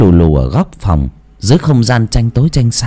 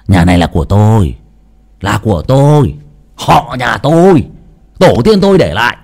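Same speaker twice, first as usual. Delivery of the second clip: a half-woken son's irritable snap, rising; snapping angrily; faster than usual. Acted. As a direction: bite back at your mother, annoyed. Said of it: "nó gắt lên". (gắt gỏng, bực bội)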